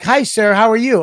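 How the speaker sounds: lightly voiced polite greeter; hotel lady greeting. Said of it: "she's like".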